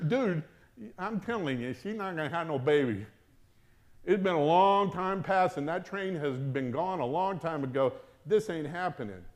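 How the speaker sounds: dismissive. Retold or imitated. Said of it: "That's how Zechariah responded".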